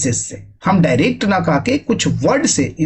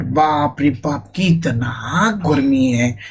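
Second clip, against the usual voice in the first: slow, lower, sagging "बाप रे बाप"; wilting in the heat; weary from heat; 3 semitones lower, much slower than usual. Shown as a demonstration. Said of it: "गर्मी ज्यादा कर रहा है". (गर्मी से बेहाल आवाज़ में)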